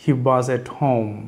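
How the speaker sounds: very slow, word by word; slowed-down teacher model; slow drill. Shown as a demonstration. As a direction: lay each word out slowly for learners. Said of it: "teacher drills phrase slowly".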